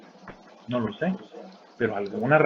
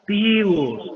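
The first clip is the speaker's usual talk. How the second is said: higher, louder group yell; crowd shout; 7 semitones higher, 6 dB louder than usual. Retold or imitated. Managers shouting back even louder, loud crowd cry. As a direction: bellow it back like a cheering crowd. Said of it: "me gritaron más fuerte ellos".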